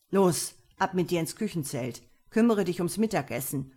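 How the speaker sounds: mildly peremptory command; understated imperious telling-off; bossy order. Acted. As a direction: order her off to work. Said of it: "herrschte er Birgitta an".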